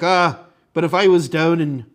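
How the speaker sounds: lightly voiced Irish friend; imitated Irish accent. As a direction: quote her with a hint of an Irish accent. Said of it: "With this accent".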